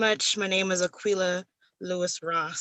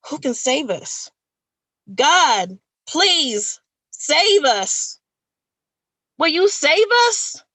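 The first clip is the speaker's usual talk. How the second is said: higher, louder desperate plea to God; pleading cry; 8 semitones higher, 7 dB louder, much slower than usual. Acted.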